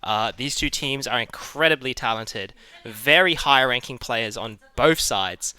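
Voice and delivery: energetic tournament host intro; esports caster. Real, not acted. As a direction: hype up the match like a caster.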